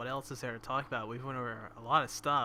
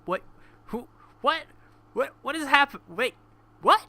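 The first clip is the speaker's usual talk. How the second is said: retold bafflement; 11 semitones higher, 10 dB louder than usual. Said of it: "I was like".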